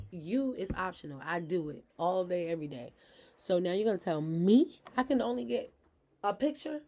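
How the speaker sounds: loud, heated rant with the loudest peak near the end; retold cursing out. Mother yelling at her ex on the phone, loud and furious. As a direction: tear into him like you did on the phone. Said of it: "cursing him out".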